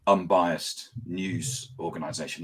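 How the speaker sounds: slow, dry ironic praise; heavy irony on unbiased; sarcastic. Acted. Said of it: "I'm being sarcastic".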